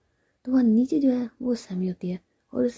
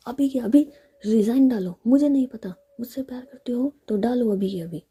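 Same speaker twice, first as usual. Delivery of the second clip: louder, pushy insistence; insistent demand; 3 semitones higher, 6 dB louder than usual. Acted. Ritika insists Sammy resign immediately, loud and pushy. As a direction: push her to resign right now.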